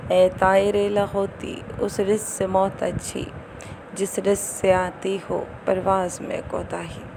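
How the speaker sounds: declaimed verse line, stretched out; poetry recitation. Acted. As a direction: recite it like a couplet. (شعر پڑھنے کا انداز)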